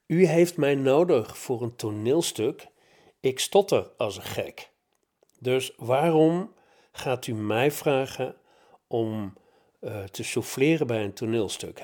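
half-laughing disbelief at the idea; surprised student questioning his teacher; stunned disbelief. Retold or imitated. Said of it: "Uiteraard stotterend".

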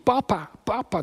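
high call for papa, moderate volume; imitated calling out. Jesus calling to his father, imitated cry. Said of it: "En Jezus roept".

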